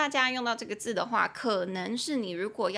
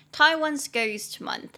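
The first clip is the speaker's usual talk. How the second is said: slow, higher, clearer teaching read; slow emphasized English model phrase; 6 semitones higher, 4 dB louder, slower than usual. Shown as a demonstration. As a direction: say it out slowly and clearly for learners.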